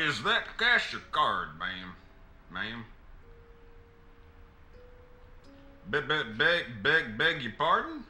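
put-on light Southern accent, flustered then polite. Attendant taking payment from the lady, in a light Southern accent. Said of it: "putting on a Southern accent".

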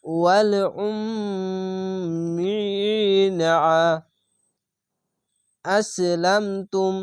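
slow chanted ওয়াল উম্মিনা, stopping cleanly on আসলামতুম; slow tajweed recitation, pause at তুম; Quranic recitation. Shown as a demonstration. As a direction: chant it slowly and stop at তুম. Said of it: "তুম বলে থেমে যাবেন".

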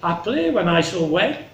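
high, measured, theatrical plea; Cordelia, spelling it out. Acted. Cordelia really spells it out to her father, measured. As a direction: set out each duty distinctly, pitched high.

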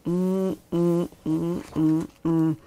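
low, displeased humming; short low grunts of disapproval; glaring grumble. Acted. Kim glaring at the farmer, grumbling hums. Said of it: "Kim glared at him".

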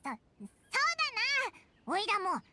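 stammering, then a half-crying yelp; flustered and teary, ending in a shaky yell. Acted. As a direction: caught out, blurt it with a whimper. Paimon flustered, cornered by argument.

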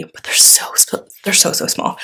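unvoiced hushed whisper over tiny stickers. Real, not acted. Whispering in awe to viewers over tiny stickers. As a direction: whisper as if the stickers might break. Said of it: "I don't know why I'm whispering".

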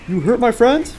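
loud, high outraged question; indignant shout. Pretend. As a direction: yell it in outrage. Teammate wounded, mock threat.

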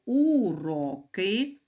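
«уроки» said slowly, split into three syllables; drawn out syllable by syllable so the class hears у-ро-ки; syllabified slowly. Shown as a demonstration. Teacher shows the class the syllables of «уроки», slow. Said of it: "має три склади".

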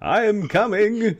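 high, slow character voice; answering in character. Acted. GM answers as the summoned Icon.

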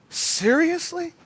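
slow, high incredulous question; drawn-out disbelief. Retold or imitated. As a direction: stretch the word out as you question it. Stunned disbelief, slower repeat.

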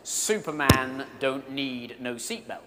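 slow, lightly voiced cocky boxer; tossing it off, a hint of swagger; Muhammad Ali brushing off the stewardess with mild arrogance; mock arrogance. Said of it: "he looks at her with some arrogance and says".

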